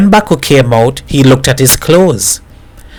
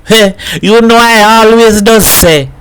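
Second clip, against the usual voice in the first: high-pitched scoffing remark; scornful; 9 semitones higher than usual. A narrator's reading. Hat scoffs at the car trouble, scornful. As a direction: scoff in a raised voice. Hat's acted scornful outburst in story.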